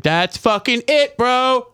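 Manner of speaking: mock excited eureka. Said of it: "they're like".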